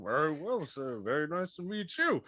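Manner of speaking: towering Athos voice. Acted. Seven-foot Athos greeting the small satyr, formal. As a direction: greet him politely from above.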